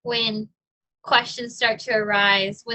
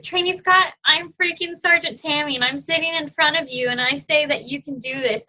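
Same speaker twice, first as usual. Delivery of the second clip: imitated yell; 5 semitones higher than usual. Retelling the sergeant yelling encouragement at her, mock yell. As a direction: bark it like a sergeant, then soften. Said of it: "she's, like, yelling at me".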